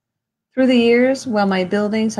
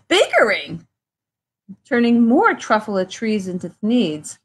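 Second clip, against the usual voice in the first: mock yelling. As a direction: tell the nagging creature off. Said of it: "I yell at the Lorax".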